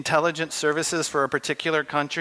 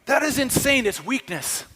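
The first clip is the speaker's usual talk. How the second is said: incredulous outburst; 9 semitones higher than usual. Retold or imitated. Official throwing up his hands, incredulous. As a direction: scoff at the idea, pitched way up. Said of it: "He goes like".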